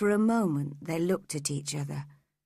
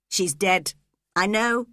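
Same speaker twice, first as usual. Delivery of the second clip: a touch louder call; 5 dB louder than usual. Acted. Heathcliff calling to Ellen across the garden. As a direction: call to her as she approaches. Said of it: "he called to me".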